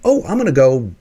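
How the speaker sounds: playful cheerful voice of a positive person; cheery optimist. Retold or imitated. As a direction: gush like a sunny optimist. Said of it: "your desired end is".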